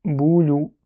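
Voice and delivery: "boulou" sounded out on its own; second part apart. Shown as a demonstration. Teacher giving the rest of the word, "boulou" set apart. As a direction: say "boulou" as a separate, measured piece. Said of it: "Et là, on dit boul".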